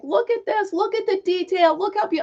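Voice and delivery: high, eager calls across the street; calling across the road. Retold or imitated. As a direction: call out to the guy across the road. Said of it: "I'm yelling across the road".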